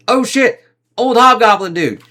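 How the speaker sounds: high, loud startled yelp; shocked. Retold or imitated. Shocked at the melted face.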